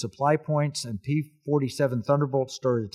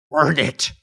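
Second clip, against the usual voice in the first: loud, drawn-out movie command; imitated shouted order; 4 semitones higher, 9 dB louder, slower than usual. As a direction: call it out like a film hero giving orders.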